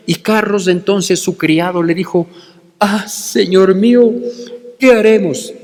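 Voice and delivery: measured, reverent scripture reading; reverent Bible reading. Acted. Preacher reading scripture to his congregation, reverent and measured. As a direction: read the verses with care and reverence. Reads the Bible text aloud.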